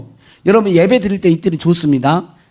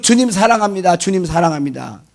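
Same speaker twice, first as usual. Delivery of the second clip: devout profession; 4 semitones lower than usual. Retold or imitated. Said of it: "그러잖아요".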